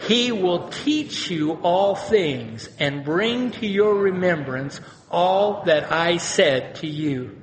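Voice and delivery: slow, measured, emphatic verse reading; scripture reading aloud. Real, not acted. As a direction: lead the congregation through the verse phrase by phrase. Reads verse aloud with congregation.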